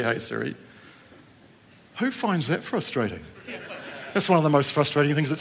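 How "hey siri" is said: "Hey, Siri." whispered low and soft, no voice; hushed whisper to keep Siri from answering; whispered so the phone won't wake. Shown as a demonstration. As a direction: breathe "Hey, Siri" under your breath. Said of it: "and I didn't say".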